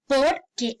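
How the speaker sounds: POR stressed, then a separate QUÉ; two separate words. Shown as a demonstration.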